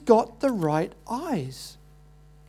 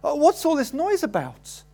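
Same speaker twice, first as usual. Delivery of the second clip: beggar calling out; 6 semitones higher than usual. Acted. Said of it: "so he cries out".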